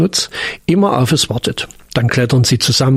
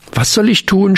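fearful blurt; 7 semitones higher than usual. Acted. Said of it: "stieß voller Angst".

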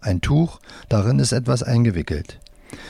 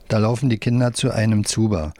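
plain reading voice

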